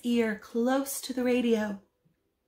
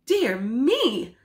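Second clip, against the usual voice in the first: shocked; 3 semitones higher, 5 dB louder than usual. Acted. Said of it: "in a shocked tone".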